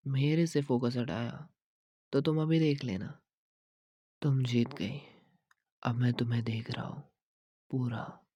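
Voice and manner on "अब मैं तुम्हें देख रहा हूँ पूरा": quick, hushed whisper; intimate whisper. Acted. Boyfriend giving in to girlfriend, quick intimate whisper. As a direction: lean in and whisper it close. He gives in to her.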